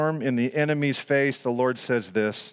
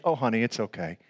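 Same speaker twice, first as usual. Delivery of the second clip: lower, gentle imitated soothing; lightly voiced consoling mother; motherly comfort; 5 semitones lower, 4 dB quieter than usual. Mom to hurt child, softly imitated comfort. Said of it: "and she".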